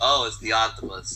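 put-on deadpan, flat, no-energy bored voice. Acting out a reaction of pure boredom: mock-bored flat voice. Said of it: "No, just boredom. Like".

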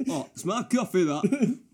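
put-on broad, thick Yorkshire accent, loud and high. Joking about a coffee mix-up over the name Jack, playing oneself: thick Yorkshire accent. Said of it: "with a thick Yorkshire accent".

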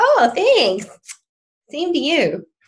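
insincere, sarcastic, swooping high delivery. Contrasting genuine thanks to a hater with the sarcastic kind: sarcastic thanks. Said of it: "in the sarcastic".

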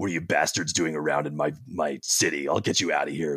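low, hard-boiled tough-guy voice. Demonstrating how you will sound as a short, super intimidating character: hard-boiled Will Arnett voice. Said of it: "this really like hard-boiled Will Arnett".

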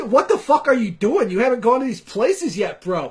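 loud, brash Boston local voice.

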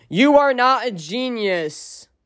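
really mad, high voice, "genius" stretched out. Reacting to someone who called herself a genius, mad. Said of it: "I'm really mad about this".

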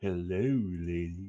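suave, smooth ladies' man voice, very low. Showing how a ladies' man wrestler character should greet: smooth ladies' man voice. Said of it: "if he's going for that stereotype, it should be like".

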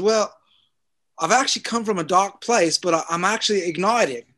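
bad put-on South African accent. Quoting a gentleman met while everyone said hi, terrible south african accent. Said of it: "That's my terrible South African".

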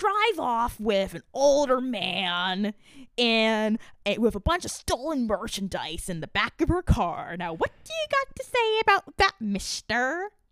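slow, swooping put-on sing-song voice, "man" drawn out. Retelling what he said to someone, imitating his voice. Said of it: "I'm trying to do his voice".

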